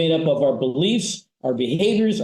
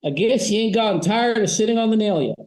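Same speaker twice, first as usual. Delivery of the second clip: farmer punchline; 6 semitones higher than usual. Retold or imitated. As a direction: deliver the farmer's punchline lightly. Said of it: "He leans over and goes".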